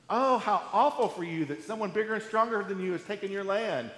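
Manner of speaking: a hint of fake sorrow for the rich; sarcastic lament. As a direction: feign sympathy you don't feel. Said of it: "It's this sarcastic lament".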